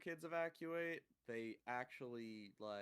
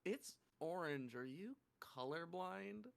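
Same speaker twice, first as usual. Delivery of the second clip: higher, softer child imitation at the end; incredulous little girl; 5 semitones higher, 3 dB quieter than usual. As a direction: mimic a kid's disbelieving question. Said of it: "to just say it".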